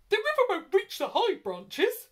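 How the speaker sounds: high, loud reassuring call; monkey calling out. A narrator's reading. Monkey calling to the animals from the treetops. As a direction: call it down from the branches. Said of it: "called the monkey".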